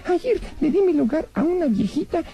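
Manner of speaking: lightly voiced cheeky rabbit puppet; a cheeky little bunny teasing the magician; voz de conejito títere pícaro.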